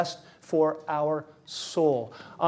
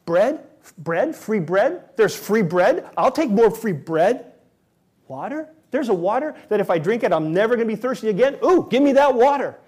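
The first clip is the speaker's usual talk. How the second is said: greedy crowd; 6 semitones higher, 6 dB louder than usual. Retold or imitated.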